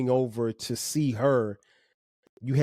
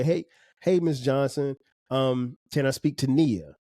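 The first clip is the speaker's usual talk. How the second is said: polite caller. Shown as a demonstration. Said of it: "Or you may say".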